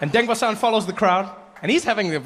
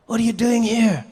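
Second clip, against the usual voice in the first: higher, louder what are you doing here; mock outraged host; 4 semitones higher, 4 dB louder than usual. Host glares at the uninvited comedian, higher, louder and incredulous. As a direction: act out an incredulous host's glare.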